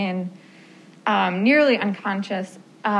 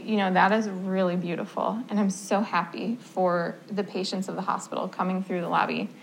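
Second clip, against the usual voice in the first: gentle; 2 semitones lower, 4 dB quieter than usual. Retold or imitated. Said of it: "very gently say".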